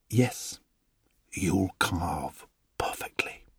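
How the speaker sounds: slow, hushed and greedy; gleeful whisper. Acted. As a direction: breathe it to the wood with delight. Woodcarver gloats over wood.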